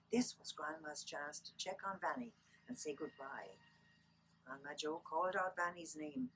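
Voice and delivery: lilting Irish storyteller reading aloud; story narration. Acted. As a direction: read a children's book aloud, lilting Irish. Reads picture book aloud.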